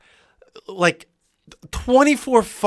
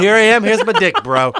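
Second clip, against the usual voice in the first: louder hammed-up announcement; mock boast; 3 semitones higher, 6 dB louder than usual. Joking about venting on the podcast, loud mock boast. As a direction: boom it out like a cocky bro. Echoing the show-off bit.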